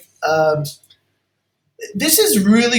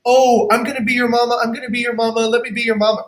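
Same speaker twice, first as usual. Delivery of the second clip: mock doting mama; 4 semitones higher, faster than usual. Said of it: "instead of saying to the baby".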